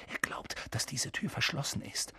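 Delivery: hushed, secretive whisper. A narrator's reading. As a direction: whisper so the pursuer won't hear. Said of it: "flüsterte Harry".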